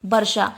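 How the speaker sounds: वर्षा with ष, not बरखा; correct pronunciation. Shown as a demonstration. Teacher answers her own question with correct वर्षा. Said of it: "तो सही उच्चारण हमारा क्या है?".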